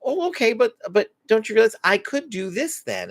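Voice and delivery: mock kid whining back. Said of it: "they say something".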